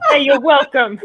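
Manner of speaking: gruff guy talk, cracking up; construction worker voice. Pretend. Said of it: "a construction worker voice".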